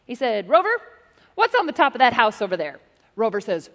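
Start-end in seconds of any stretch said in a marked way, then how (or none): 0.5-2.8 raised, louder call to the dog. Retold or imitated. Dog owner calls out to Rover for the talent scout, louder.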